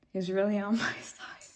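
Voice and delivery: real laugh breaking through the words. Real, not acted. Clarifying that she means her attorney, laughing.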